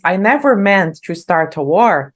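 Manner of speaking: slow, careful lyric line; slow model reading. Shown as a demonstration. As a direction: read it out slowly and clearly for learners. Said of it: "quando ela diz".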